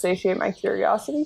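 mumbled quietly to oneself under breath. Playing a character answering a question about the acorn: mumbling under breath. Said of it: "mumble under my breath".

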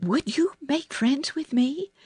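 tender, sweet voice. Reading a story aloud, a girl asks a robin to be friends: soft, sweet voice. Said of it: "not say it in her hard little voice, but in a soft, sweet way".

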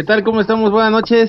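hollered, very high, loud shout. On a phone call to a podcast, shouting a greeting. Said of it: "No grites".

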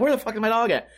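put-on panicked tone. Retelling searching the house for the missing dog: retelling own past panic. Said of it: "now I'm, like, panicking".

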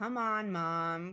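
words pushed out on a pleading groan. Chrissy answers her mother about christmas dinner, groaning. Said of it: "Chrissy groaned".

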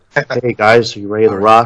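very low, dead level, flat monotone drone. Mimicking a hey guys greeting, flat monotone Terrence impression. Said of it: "so monotone, like".

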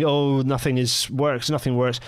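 ordinary delivery

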